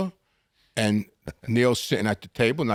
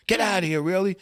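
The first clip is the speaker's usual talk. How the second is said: higher, mock-amazed club owner; surprised owner; 8 semitones higher than usual. Club owner hearing whose son this is, amazed. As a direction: play the owner suddenly impressed.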